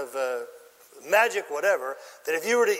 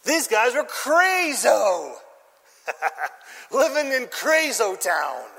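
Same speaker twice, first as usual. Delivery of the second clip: laughing emphasis; 3 semitones higher, 3 dB louder, slower than usual. Real, not acted. Preacher laughing about crazo.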